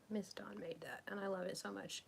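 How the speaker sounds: soft whispered aside, barely voiced; hushed aside. Real, not acted. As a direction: breathe it out as a quiet aside. Aside under her breath.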